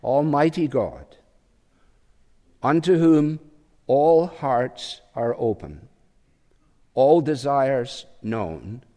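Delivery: slow, deliberate, every phrase given room; a hushed, weighty liturgical reading. Acted. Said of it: "Let me just read it again".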